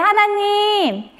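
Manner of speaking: high, slow call of thanks; chanted thanks, swelling at the end; calling out to God. Shown as a demonstration. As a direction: lead children in a drawn-out shout. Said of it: "자, 우리 그러면 하나님께 외쳐볼까요?".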